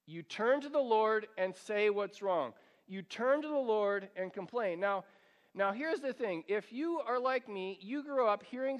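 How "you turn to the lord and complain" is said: ordinary talk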